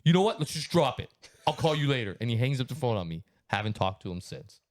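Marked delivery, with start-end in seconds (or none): 0.0-2.2 higher, drawn-out placating tone. Retold or imitated. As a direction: act out talking someone down. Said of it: "calm down. Let's not get so frustrated".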